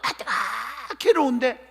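drawn-out groan of torment; agonized groan. Acted. Preacher acts out suffering in hellfire, agonized groan.

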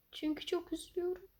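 mock sad whine. Youtuber pretending to be sad about views, whining. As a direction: whimper it like a pouty kid.

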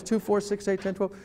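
quick, run-together number; real fast. Retold or imitated. Agent giving his ID number, real fast. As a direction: rattle the digits off. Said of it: "he goes real fast".

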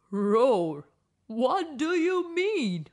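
a storybook lion, puzzled; roaring lion. Acted. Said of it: "a roaring lion".

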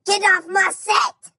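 angry shout. Acted. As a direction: bark him off the set like an angry director. Kicks someone off his set.

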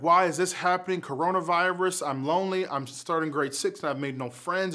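frustrated complaint. Pretend. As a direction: vent like a lonely upset kid. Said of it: "angry at the world around you".

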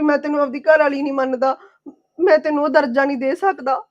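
tearful, voice catching on a sob; quoting him through tears; wife in tears, repeating her husband's cruel words; crying. Acted. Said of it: "ਤੂੰ ਰੋ ਨਾ".

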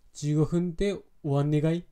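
Fukushima dialect question, "終わんねがい" rising at the end; unhurried rising Fukushima question; Fukushima accent. Shown as a demonstration. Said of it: "福島なまりだ、これが。".

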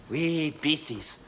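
"Wee beasties" drawn out very slow; slow demo. Shown as a demonstration. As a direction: spell it out slowly for the class. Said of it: "Here's another favourite of mine".

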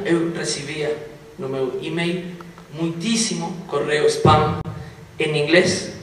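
Portuguese with a Spanish accent; Spanish speaker talking Portuguese. Real, not acted. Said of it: "Continuo treinando o meu português, então vou seguir falando assim".

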